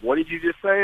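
retold disbelief, mildly stunned; flabbergasted. Usher reacting to names on the golf course, flabbergasted. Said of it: "he was kinda flabbergasted".

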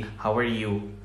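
"how are you" very slow and soft, R hit hard in a mock Indian accent. Shown as a demonstration. Podcaster imitates his early overdone accent: mock Indian, slow. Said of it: "بدت تصير زي كأني قاعد أتكلم هندي".

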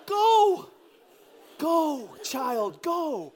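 high, loud mock order, easing off; exasperated command. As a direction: order the child off, acted. Father ordering reluctant daughter to go.

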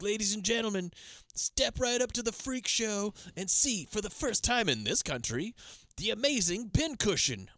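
high-pitched, slow carnival barker spiel; hammed-up ringmaster, stretching out each phrase; speechifying showman. Teller imitates the villain taunting his victim, theatrical speechifying. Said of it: "he starts speechifying when he's got her".

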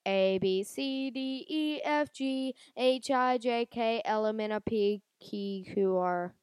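drawn-out halting ABCs; slow recitation. Shown as a demonstration. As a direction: spell each letter slowly and unsure. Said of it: "But if I do it like".

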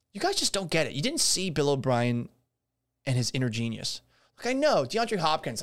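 dripping sarcasm; sarcastic. Real, not acted. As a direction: pretend to defend a genius with a straight face. Sarcastic praise of Bill O'Brien.

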